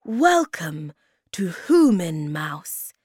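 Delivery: kindly, loud welcome; welcoming and kind, words drawn out; kind cry. A narrator's reading. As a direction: call out a slow, friendly greeting. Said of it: "he cried in a kind voice".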